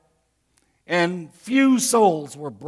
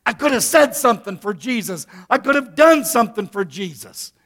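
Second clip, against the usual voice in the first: regretful exclamation; 3 semitones higher than usual. Retold or imitated. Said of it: "And you go".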